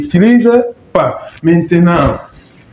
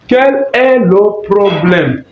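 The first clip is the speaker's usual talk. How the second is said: slow model phrase; slower than usual. Shown as a demonstration. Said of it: "teacher models slowly".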